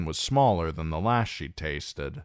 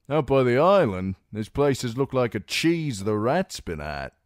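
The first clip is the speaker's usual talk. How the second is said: a blunt woodsman, higher, scornful; rough scout, scolding; 5 semitones higher, 4 dB louder than usual. A narrator's reading. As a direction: scold the lords for fishing out the lakes. Scout Ned speaks at length.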